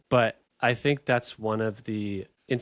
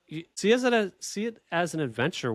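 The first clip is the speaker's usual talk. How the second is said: lightly voiced wife, pitched up; higher-pitched retold reassurance; imitating wife; 7 semitones higher than usual. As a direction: quote your wife in a higher voice. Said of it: "She was like".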